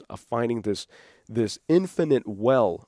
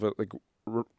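ordinary talk, nothing marked

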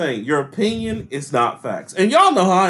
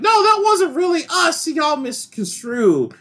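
hammed-up whiny denial; mock Republican; 11 semitones higher, slower than usual. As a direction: parody someone dodging blame. Mocking Republicans' excuses.

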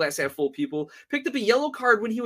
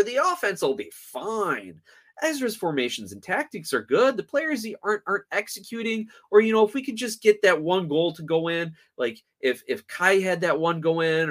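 mock optimistic fan. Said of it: "But the glass half full".

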